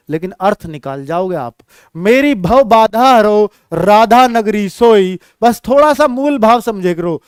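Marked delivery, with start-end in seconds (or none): 2.0-5.2 slow, drawn-out chanting of the verse; poem recital. Shown as a demonstration. Teacher slowly chants a verse line to students.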